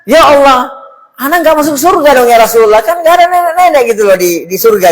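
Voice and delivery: a hint of a weeping grandma's voice; crying old woman. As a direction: plead like a grandmother near tears. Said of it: "si nenek ini nangis".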